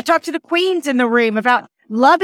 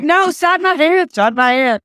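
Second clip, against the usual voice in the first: put-on insistent kids; 2 semitones higher than usual. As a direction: play excited kids refusing an alternative. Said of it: "They're like".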